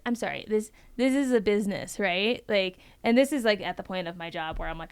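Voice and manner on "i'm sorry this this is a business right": pointed correction. Retold or imitated. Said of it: "I'll stop the call and I'll be like".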